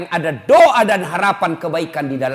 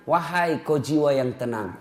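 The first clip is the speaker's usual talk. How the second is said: gentle calling; 2 semitones lower, 5 dB quieter, slower than usual. Pretend. People calling the name.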